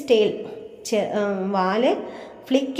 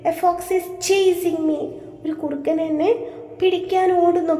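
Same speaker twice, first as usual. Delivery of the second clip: higher urgent scared rabbit; teacher acts the terrified rabbit; frightened plea; 6 semitones higher than usual. Shown as a demonstration. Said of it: "എന്താ പറഞ്ഞേ?". (പേടിച്ചരണ്ട മുയലിൻ്റെ അപേക്ഷ)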